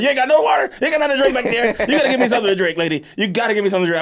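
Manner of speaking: acted-out desperate complaint; indignant pleading. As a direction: plead in disbelief, pitch jumping up. Panicked demand for water on plane.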